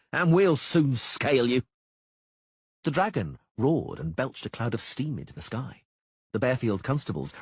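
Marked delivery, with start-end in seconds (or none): 0.1-1.6 loud, slow gloating bawl; bawled taunt. A narrator's reading. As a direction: drag out the threat at full voice. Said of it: "Sheepbagger bawled".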